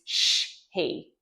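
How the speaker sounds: "sh" then a gap before "he"; choppy wrong way. Shown as a demonstration. Therapist showing parents the wrong way, choppy split. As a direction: split "sh, he" with a break. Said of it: "The incorrect way is".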